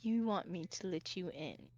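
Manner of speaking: low, very soft incredulity; quiet disbelief. Acted. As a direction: question it quietly, unimpressed. Sarah incredulous at Hoshi's request.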